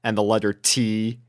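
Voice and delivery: ordinary delivery, nothing marked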